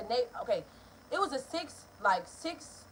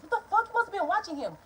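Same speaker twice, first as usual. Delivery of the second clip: angry mother; 9 semitones higher than usual. Retold or imitated. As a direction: blast it like a furious mom. Mother yelling at narrator.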